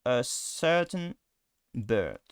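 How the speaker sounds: "a certain bird" with English schwa-like vowels; English pronunciation. Shown as a demonstration. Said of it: "So instead of saying a certain bird".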